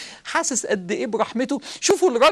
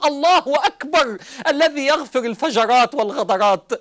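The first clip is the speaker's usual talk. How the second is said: joyful cry; 4 semitones higher than usual. Retold or imitated. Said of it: "فمضى الرجل يبكي وهو يصرخ".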